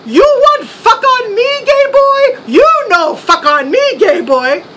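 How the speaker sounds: lightly voiced mock Chow, high yelled taunt; a hint of a manic movie villain screaming; Mister Chow. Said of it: "I started channeling him".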